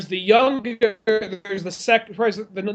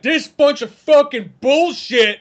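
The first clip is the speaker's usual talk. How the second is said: slow grumbling trapper, a touch higher and louder; Tom Hardy grumble; 6 semitones higher, 4 dB louder, slower than usual. Retold or imitated. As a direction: grouse it out like a fed-up trapper. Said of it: "It's like Tom Hardy".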